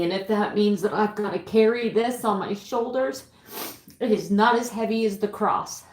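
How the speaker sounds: choked up but holding it together; heartfelt, struggling to keep composure; emotional breakdown. Real, not acted. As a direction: plead through real emotion, pausing to collect yourself. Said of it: "sorry about that emotional breakdown".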